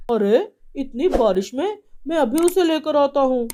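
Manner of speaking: put-on loud, urgent young man; alarmed husband. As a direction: rush to go save her. Son alarmed.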